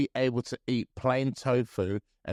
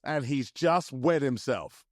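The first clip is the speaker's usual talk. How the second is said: sports commentator; 4 semitones higher, slower than usual. Pretend. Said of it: "over-the-top sports commentator voice".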